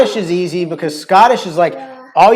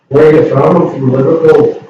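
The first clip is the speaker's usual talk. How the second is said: loud Scouse question and answer; Liverpool accent like a famous band's; 7 dB louder than usual. Acted. Showing the listeners Liverpool speech, loud Scouse accent in the style of a famous band. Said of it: "more of that Beatle sound".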